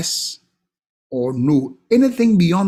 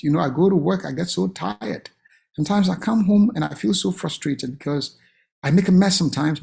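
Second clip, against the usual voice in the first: tired father; 3 semitones lower than usual. Acted. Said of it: "Sam, me, me, wonim sɛ".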